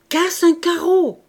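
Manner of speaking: high, loud, slow command; insistent repeated shout. A narrator's reading. Father insisting to his frozen child, drawn-out shout. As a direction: shout it drawn out, hammering each word. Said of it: "reprit-il".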